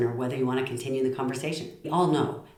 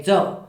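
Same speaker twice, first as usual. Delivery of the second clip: "do" said firmly and louder; commanding; 2 semitones higher, 5 dB louder than usual. Shown as a demonstration. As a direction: give "do" as a one-word order. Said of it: "could sound like a command".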